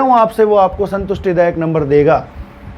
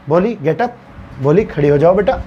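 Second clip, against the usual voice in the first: lovingly; 2 semitones lower than usual. Retold or imitated. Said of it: "बहुत प्यार से".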